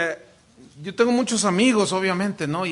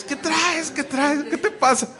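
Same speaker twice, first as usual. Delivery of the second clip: higher, urgent questions; mock urgent question; 9 semitones higher than usual. Preacher retells asking his friend, higher and urgent. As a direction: ask it again and again, surprised. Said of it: "Le digo".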